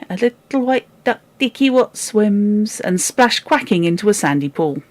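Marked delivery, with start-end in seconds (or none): 0.1-2.8 put-on happy toddler. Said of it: "said he".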